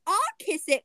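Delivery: high storybook cry. A narrator's reading. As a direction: pipe it up eagerly, high and loud. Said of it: "cried Frogalina".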